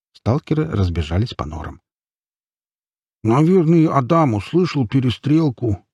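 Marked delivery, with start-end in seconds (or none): 3.2-5.9 high, let-down musing; mildly dismayed, voice pitched up; disappointed. A narrator's reading. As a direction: sound let down as it dawns on you. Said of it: "разочаровался слон".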